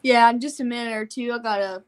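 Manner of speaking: panting a little after yelling; out of breath. Real, not acted. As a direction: still catching breath. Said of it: "catch my breath a little bit".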